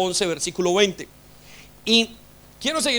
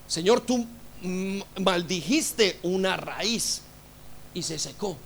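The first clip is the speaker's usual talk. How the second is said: hushed prayer; 6 dB quieter, slower than usual. Real, not acted. Preacher's hushed aside to the Lord.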